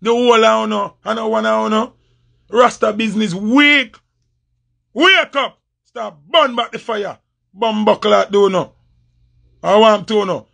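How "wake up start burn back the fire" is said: higher and sharp, called out; calling out to a rival to wake up. Real, not acted. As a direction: jolt him awake.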